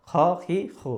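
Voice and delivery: "খ, খি, খু" as three separate syllables; Arabic Kha drill. Shown as a demonstration. Teacher drilling the correct letter with vowels, "খ, খি, খু". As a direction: step through "খ, খি, খু", rounded "o" first. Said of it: "হবে খ".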